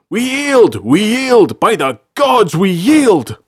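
high, loud cries for mercy; shouted surrender. A narrator's reading. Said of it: "one shouted".

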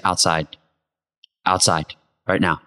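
low, quiet, cold command; a man calmly calling another outside, low and cold; quiet threat. Retold or imitated. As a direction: keep it low and menacing, no shouting. A bar confrontation, low and quiet.

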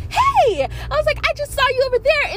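high, bright-eyed hey; happy greeting. Retold or imitated. Greeting the mother and daughter at the register, delighted. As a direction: call out to them, delighted.

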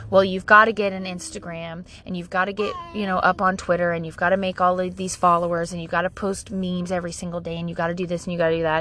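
low, monotone run-on list; droning advice. Retold or imitated. Mom retelling teen's social media advice, droning imitation.

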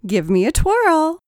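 high, loud playful demand; sing-song tease, high and loud; teasing. A narrator's reading. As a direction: coax a twirl with a grin. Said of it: "teased Rachel".

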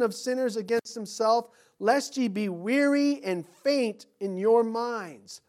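measured pulpit scripture reading. Acted. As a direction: read the verses out like a preacher. Reads scripture aloud.

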